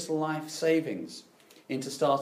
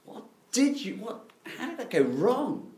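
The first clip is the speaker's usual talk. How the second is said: much higher and louder, indignant; outraged disbelief; 10 semitones higher, 7 dB louder than usual. Retold or imitated. Home crowd scolding Jonah, much higher and louder. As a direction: shout it like scandalised friends. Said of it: "And they're going".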